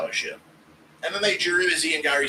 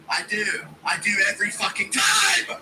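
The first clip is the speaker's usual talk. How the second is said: exasperated; 7 semitones higher than usual. Real, not acted. Answering chat's jab, outburst.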